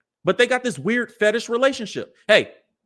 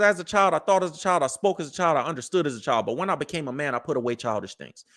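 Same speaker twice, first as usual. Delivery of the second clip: scripture recitation; 5 semitones lower than usual. Acted. Quoting scripture to his listeners, solemn and fading. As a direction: recite it like a verse, letting it sink lower. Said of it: "The scripture says".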